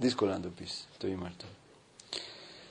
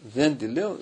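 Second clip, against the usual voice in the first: louder, rising defiant refusal with «δεν» pushed up; mock shout; 2 semitones higher, 6 dB louder than usual. Possessed woman refusing the priest, louder shout. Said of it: "Άρχισε να φωνάζει αυτή, έτσι".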